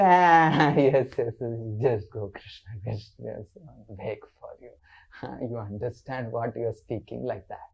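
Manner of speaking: laughing, dismissive brush-off; Lalita. Acted. Lalita waves off Krishna's warning, laughing. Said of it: "Lalita said".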